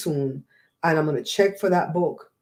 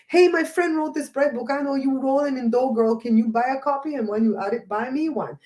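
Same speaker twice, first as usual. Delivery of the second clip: mock friend pitch; 5 semitones higher than usual. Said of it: "you could tell a friend".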